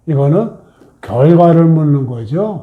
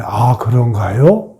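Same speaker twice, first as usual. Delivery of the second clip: accepting nod; 5 semitones lower, slower than usual. Shown as a demonstration. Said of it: "그거 수긍해 주세요".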